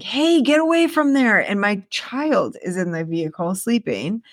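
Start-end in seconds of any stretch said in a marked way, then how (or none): 0.0-1.4 high shout, pitched way up; screaming at thieves. Retold or imitated. Running at thieves breaking into her car, high yell. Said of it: "like, screaming and I'm like".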